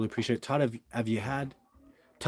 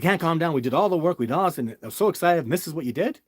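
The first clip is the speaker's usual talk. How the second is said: raised, high-pitched protest of someone unable to calm down; upset, imitated; 5 semitones higher, 5 dB louder, faster than usual. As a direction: re-enact an agitated colleague's outburst. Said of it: "like, he's upset".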